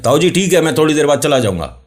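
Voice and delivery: put-on a young boy shouting across; boy reassures uncle across the field, high; boy calling back.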